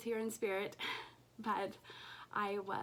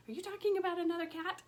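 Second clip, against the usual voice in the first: quick high pet voice; cat voice; 9 semitones higher, 3 dB louder, faster than usual. Pretend. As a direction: voice the jealous cat. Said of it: "She's like".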